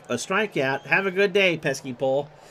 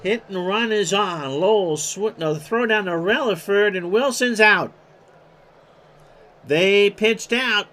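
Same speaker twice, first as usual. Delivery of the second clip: rising excitement; 4 semitones higher, 4 dB louder than usual. Real, not acted. Live call of a pickoff.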